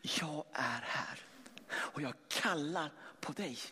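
slow, soft whispered call; the Father's whisper to the listener. Acted. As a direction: whisper it slowly, like an intimate call. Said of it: "en viskning som går ut".

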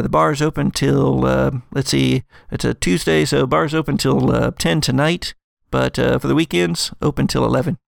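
chatty lodge concierge listing hours; helpful concierge. Acted. Concierge telling guests the bar hours, cheerful and helpful.

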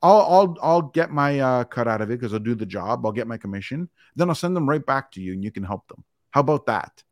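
mock helpful sarcasm; sarcastic comeback. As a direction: needle him with mock generosity. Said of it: "I go".

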